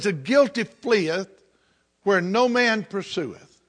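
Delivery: slow, deliberate King James recitation; slow scripture reading. Shown as a demonstration. Preacher reads scripture to the congregation, slow and weighty. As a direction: let each old word land slowly. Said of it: "The Bible says".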